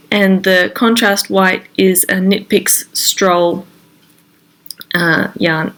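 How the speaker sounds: stuffy nose from a cold; talking through a head cold; congested. Real, not acted. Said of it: "I'm a bit congested".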